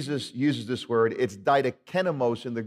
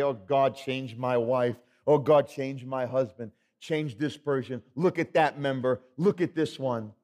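self-righteous prayer; 2 semitones lower than usual. Retold or imitated. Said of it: "Very easy to pray".

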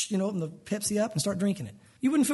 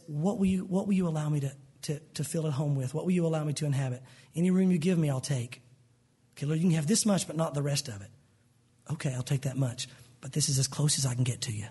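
very gently; 4 semitones lower than usual. Acted. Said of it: "very gently says".

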